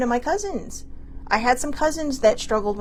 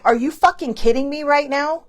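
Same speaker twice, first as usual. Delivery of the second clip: mock disbelieving outburst, a bit louder and higher; retold outburst; 5 semitones higher, 4 dB louder than usual. Retelling her outburst at the ER doctor, mock loud disbelief. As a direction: replay the disbelief with some punch. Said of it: "I was not quiet".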